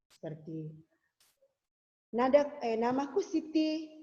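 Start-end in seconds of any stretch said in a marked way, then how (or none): 2.1-3.9 much higher and louder demo voice; slow, high, ringing demo of the full voice. Shown as a demonstration. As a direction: pitch it way up and project for the full-voice example. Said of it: "Kalau tebal itu contohnya seperti ini".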